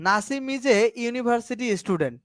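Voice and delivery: slow, careful reading with a clear u in university; slow classroom readout of the example. Shown as a demonstration. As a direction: spell the sentence out word by word. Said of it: "দেখো".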